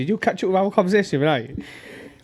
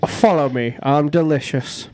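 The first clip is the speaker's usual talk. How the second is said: Irish accent impression; slower than usual. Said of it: "he knows he's Irish from my impression".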